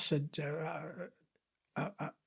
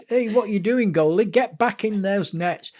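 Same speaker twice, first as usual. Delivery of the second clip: louder, higher mock referee call; imitated referee telling-off; 4 semitones higher, 5 dB louder than usual. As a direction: call the keeper back sternly, playfully acted.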